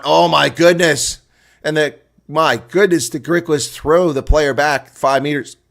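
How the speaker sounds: astonished call. Real, not acted. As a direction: stretch out the amazement as the pack drives them back. Griquas drive the Griffins back.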